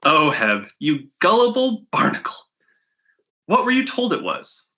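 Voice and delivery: bossy dealer hurrying the slackers; brash fence woman. Acted. Fence Wathern hustles the bounty hunters, impatient brash voice.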